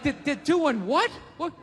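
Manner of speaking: stunned, repeating what; can't believe his ears; shocked disbelief. Retold or imitated. Comic disbelief at McDonald's salads. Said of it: "I'm like".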